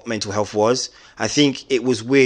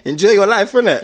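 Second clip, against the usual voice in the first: playful put-on voice; 9 semitones higher, 6 dB louder than usual. Teasing friend about wine.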